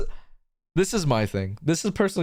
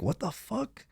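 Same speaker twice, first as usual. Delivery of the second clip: much softer, stunned question; hushed disbelief; 2 semitones higher, 10 dB quieter, slower than usual. Retold or imitated. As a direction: re-enact a private, hushed shock. Retold shock at own new voice.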